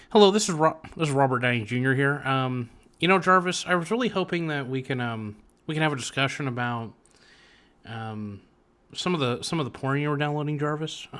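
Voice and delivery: lightly attempted movie-star impression; a halting, badly faked celebrity voice; Robert Downey Junior. Actor asking Jarvis about downloads, a poor impression. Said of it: "I could do my Robert Downey Junior impression".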